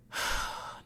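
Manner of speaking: long breathy exhale; weary sigh. Real, not acted. Venting to listeners about not being considered, weary sigh. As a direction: let out a heavy sigh.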